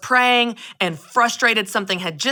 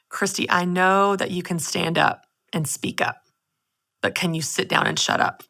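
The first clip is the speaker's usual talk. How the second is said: gentle voice of God; 3 semitones lower, 4 dB quieter than usual. Retold or imitated. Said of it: "I felt this gentle whisper".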